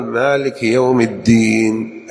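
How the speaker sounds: put-on الدين wrongly said as at-teen; wrong t sound in الدين; ta for dal. Shown as a demonstration. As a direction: devoice the د of الدين into ت. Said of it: "لا تقول".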